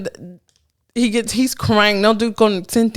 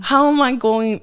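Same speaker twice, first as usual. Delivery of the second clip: higher, mock tearful plea; retold crying; 4 semitones higher than usual. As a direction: act out a tearful plea, lightly. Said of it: "Like, crying hard".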